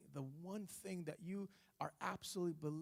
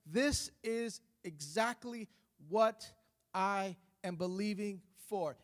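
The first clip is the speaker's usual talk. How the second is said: louder, insistent declaration to God; bold declaring prayer; 5 dB louder than usual. Acted. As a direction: claim it out loud, pressing each "this". Bold prayer voiced in the sermon.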